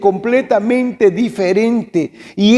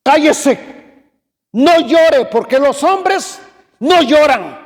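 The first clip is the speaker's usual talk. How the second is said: stern uncle; 5 semitones higher than usual. Retold or imitated. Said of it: "Y me dice".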